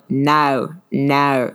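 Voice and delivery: imitating a cousin's Southern "No"; lightly put-on Southern twang on "no"; heavy Southern accent. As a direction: twist the vowel of "No" Southern-style. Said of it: "real heavy Southern accent".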